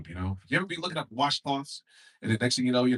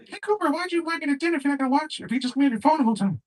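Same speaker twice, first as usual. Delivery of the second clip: much higher, fast whiny complaint; teacher annoyed at her date; 4 dB louder, faster than usual. Acted. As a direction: nag him across the table. Acted teacher complaining at dinner.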